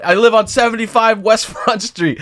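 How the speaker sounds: rally the whole bar like a tipsy host; drunk party call. Retold or imitated. Friend inviting strangers home.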